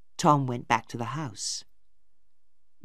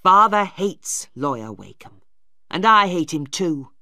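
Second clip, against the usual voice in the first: louder, hard-edged declaration of family hatred; angry brother; 3 semitones higher, 7 dB louder than usual. Acted. Brother tells sister of his hatred, angrily. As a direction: spit out the grudge against Wakem. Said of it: "Tom was angry".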